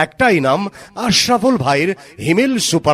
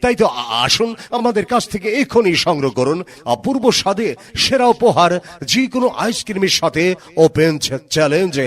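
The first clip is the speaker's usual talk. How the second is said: chipper 1950s ad. Acted. Mic promo read.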